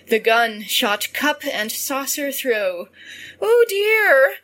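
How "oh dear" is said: loud, high cry of dismay; acted wail in a raised voice. A narrator's reading. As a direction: exclaim it as the startled wife. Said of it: "cried she".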